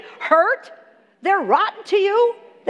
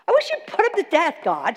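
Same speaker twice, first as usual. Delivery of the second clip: imitating pleading; faster than usual.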